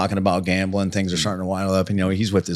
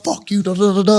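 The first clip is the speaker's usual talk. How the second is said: put-on high, loud drunken ranting; 12 semitones higher, 3 dB louder than usual. Drunk kid in the car ranting at Randleman, high and loud. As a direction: rant at him like a wild drunk.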